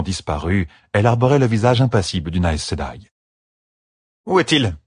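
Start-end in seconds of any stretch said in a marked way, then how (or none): 4.3-4.8 cold, clipped demand; a chill in the question; icy. A narrator's reading. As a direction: ask it like ice, no warmth at all.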